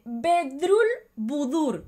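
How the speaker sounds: drawn-out name; slow reading of name. Acted. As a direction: read the odd name out slowly.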